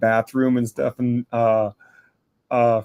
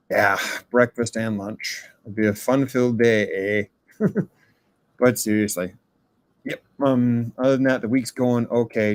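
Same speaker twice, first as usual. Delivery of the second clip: odd Canadian-style voice. Acted. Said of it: "I've never heard him talk quite like that".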